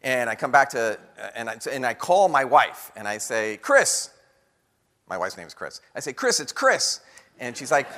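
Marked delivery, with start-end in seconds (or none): 3.6-4.1 excited call. Retold or imitated. Excitedly calling wife on phone. 6.1-7.0 excited call. Retold or imitated. Excitedly calling wife on phone.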